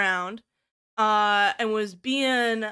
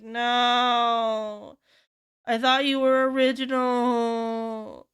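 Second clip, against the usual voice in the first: mock heartbroken; much slower than usual. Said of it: "And I'm like".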